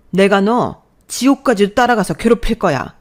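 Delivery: loud vengeful threat; mother shouting threats at son-in-law; furious threat. Acted. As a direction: swear to haunt him.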